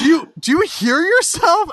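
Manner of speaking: high, loud mock disbelief, laughing; playfully argumentative. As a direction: hit it like a fun argument. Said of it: "I got into an argument".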